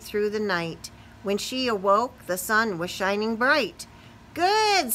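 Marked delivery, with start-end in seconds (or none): 4.3-4.9 happy spider. Acted. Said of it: "said the spider".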